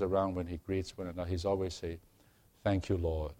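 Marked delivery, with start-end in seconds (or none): 2.6-3.3 light New Zealand accent imitation; a hint of a New Zealand accent. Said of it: "in his New Zealand accent".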